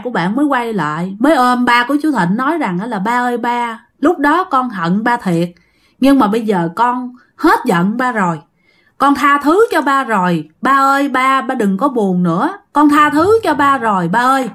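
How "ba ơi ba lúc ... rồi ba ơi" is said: a touch of weeping, rising at the end; lightly voiced crying child forgiving her father; understated tearful reassurance; retold tearful forgiveness. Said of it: "sau đó khóc quá trời khóc luôn".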